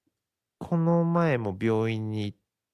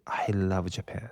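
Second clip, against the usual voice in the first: slow, drawn-out "I love Japan" impression; imitated American Japanophile; 3 semitones lower, 4 dB quieter, much slower than usual. Host mimics Americans who adore Japan, slow imitated gush. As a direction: imitate an American fan, stretched out and lifted at the end. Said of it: "アメリカ人にある一定のあの感じ".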